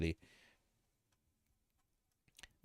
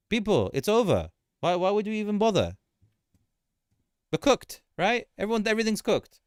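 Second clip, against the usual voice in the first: mock doom panic; 7 semitones higher, 3 dB louder than usual.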